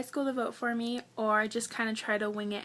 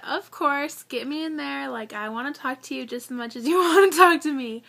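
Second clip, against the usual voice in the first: eager yes; 3 semitones higher, 6 dB louder than usual. Retold or imitated. Retelling her eager answer to the interviewer, laughing. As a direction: jump at the chance, laughing at the end. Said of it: "So I said".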